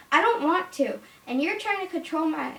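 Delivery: mock indignant refusal; defiant daughter. Acted daughter defying mother in play.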